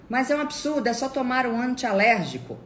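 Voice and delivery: high, loud mock outrage; indignant relative. Relative insisting she take an antiallergic, indignant. Acted relative protesting back.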